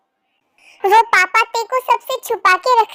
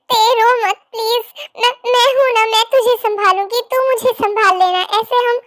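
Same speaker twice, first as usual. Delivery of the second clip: tearful comfort. Acted. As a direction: soothe her sister while crying. Sister comforts twin while crying.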